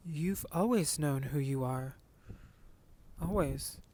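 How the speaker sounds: mom's slow, hesitant reassurance, lightly voiced; a hint of a mom holding back, unsure. Mom to son, lightly voiced hesitant comfort. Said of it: "she's like".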